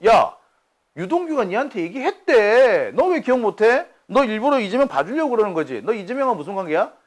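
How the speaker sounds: 높고 큰 소리로 몰아붙이는 검사 흉내; 윽박지르듯 따져 묻기; 따지는 검사 흉내. Retold or imitated. 검사들이 따지는 장면 재연. (검사가 남욱을 다그치듯 큰 소리로 따지는 흉내)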